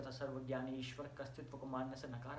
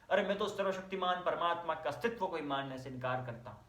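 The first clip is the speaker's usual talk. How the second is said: indignant rebuttal; 5 dB louder than usual. Acted. Atheist answering friends who blame his vanity, indignant. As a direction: protest it firmly, a little louder.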